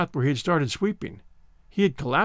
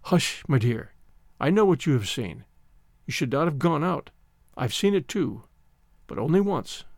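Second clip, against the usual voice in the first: soothing; 3 semitones lower than usual. Acted. Housekeeper comforts shivering girl.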